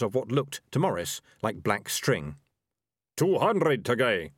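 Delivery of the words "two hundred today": shout. A narrator's reading. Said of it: "shouted one of the rat catchers".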